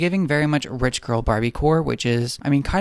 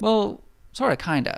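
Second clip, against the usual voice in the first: Galinda; 7 semitones higher than usual. Retold or imitated. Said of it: "And Galinda's like".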